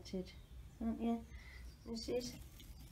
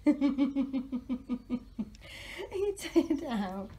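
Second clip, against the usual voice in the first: pet talk; 6 semitones higher, 8 dB louder, slower than usual. Real, not acted. Baby talk to panting pet.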